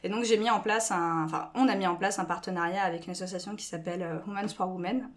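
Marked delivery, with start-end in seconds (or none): 4.3-5.1 English name said with a French accent; just say the English name in her own French accent. Real, not acted. Guest names the charity with her French English accent. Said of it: "Désolée pour mon accent anglais".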